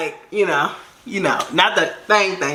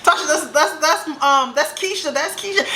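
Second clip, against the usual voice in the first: imitated bystanders; 8 semitones higher than usual. Everybody trying to stop her.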